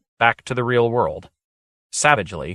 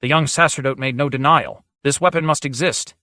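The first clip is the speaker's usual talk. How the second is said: stammering; 4 semitones higher than usual. Acted. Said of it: "Joaz managed to stammer".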